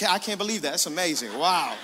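mock-impressed through a laugh, bluffing; fake amazement. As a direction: pretend to be amazed while lost. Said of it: "pretend I know what he's talking about".

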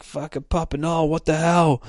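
high-pitched mock alarm; acted shocked exclamation; startled outcry. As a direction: blurt it high, as a startled reaction. Acts startled Santa after gunshot.

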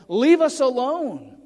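modern demon voice. Acted. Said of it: "if we want to say it in modern terms".

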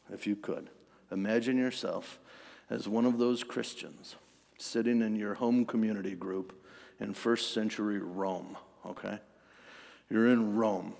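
low, soft conversational storytelling; intimate scene-setting. Acted. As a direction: drop the voice and invite them to imagine. Sets imagined scene in low voice.

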